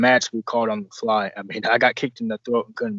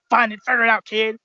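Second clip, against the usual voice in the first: teasing mentor; 9 semitones higher than usual. Retold or imitated. Voicing older mentor ribbing.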